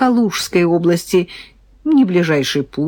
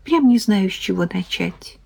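feigned embarrassment. Pretend. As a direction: put on a bashful hesitation. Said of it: "изображая крайнее смущение".

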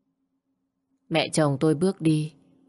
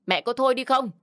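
snapping son; 8 semitones higher than usual. Acted. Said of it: "Khang quát lớn".

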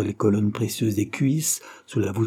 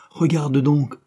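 commanding; 6 semitones higher, 5 dB louder, slower than usual. Acted. Christine orders Claude to look.

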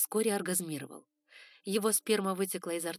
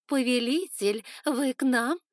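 higher, louder teasing coo; 6 semitones higher, 9 dB louder, slower than usual. A narrator's reading. Concubines cooing at their passing lord, higher and louder. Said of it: "заворковали".

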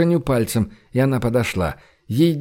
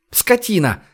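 understated yell; 7 semitones higher than usual. A narrator's reading. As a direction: yell the insult without full volume. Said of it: "заорала Женя". (сдержанный злой выкрик, высоким голосом)

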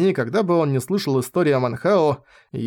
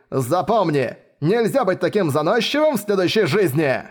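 mocking taunt; 2 semitones higher than usual. Pursuers taunting fallen rival.

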